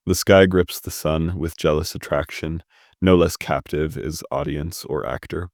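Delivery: measured, deliberate poetry recital; poem reading. Acted. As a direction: read it as verse, pausing between the lines. Rereads opening lines of poem.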